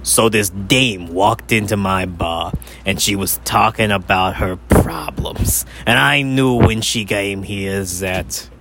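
slow hardboiled detective narration; a hint of a noir gumshoe. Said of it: "if, if it's crime noir".

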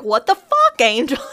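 high, loud, laughing "what the fuck"; hammed-up disbelieving yell at Angel; mock outraged shout. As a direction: blurt it like the news just hit. Retold Deborah outburst.

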